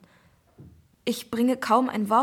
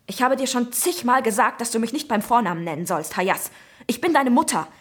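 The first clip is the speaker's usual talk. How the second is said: sharp, raised scolding; flaring up angrily; 2 semitones higher, 5 dB louder than usual. Acted. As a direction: snap at him, flaring up. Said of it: "fuhr ich ihn aufbrausend an".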